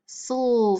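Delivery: "sul" as the sl blend alone; drawn-out l in "sul", hardly a vowel; isolated blend sound. Shown as a demonstration. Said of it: "the sul sound".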